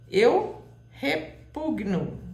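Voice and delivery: "repugno" devagar, destacando o PUG; tônica no U. Shown as a demonstration. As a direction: separe "repugno" em partes lentas, apoiando o U. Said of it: "a sílaba tônica é o U". ("repugno" silabado, tônica no PUG)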